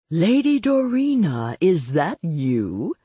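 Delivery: light up with delight at who is calling. A narrator's reading. Vampire on the phone recognizing Lady Dorina, delighted. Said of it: "had sounded delighted".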